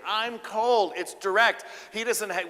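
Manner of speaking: ordinary delivery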